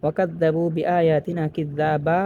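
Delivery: slow, drawn recitation ending on a long a; Quran recitation. Shown as a demonstration. Teacher reciting a verse for students, slow and drawn. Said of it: "ওয়াকফ হওয়ার কারণে".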